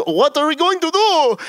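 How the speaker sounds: high, hammed-up panicked question. Dragan freaking out about visitors, mock panic.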